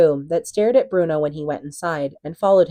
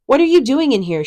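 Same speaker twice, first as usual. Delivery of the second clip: high, loud startled shout; 8 semitones higher, 7 dB louder than usual. A narrator's reading. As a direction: shout it, spinning round. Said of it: "she shouted".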